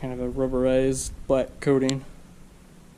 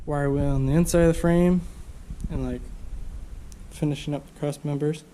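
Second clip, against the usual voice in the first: blocked nose, congested voice; stuffed up nose. Real, not acted. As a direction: talk through a stuffy nose. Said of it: "I'm all stuffed up".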